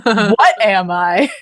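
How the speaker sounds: mock-tragic Harry, gently overplayed; melodramatic Harry. Harry asking Hedwig in the snow, hammed-up lament. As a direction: ham up a brooding hero's lament. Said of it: "It's so over dramatic".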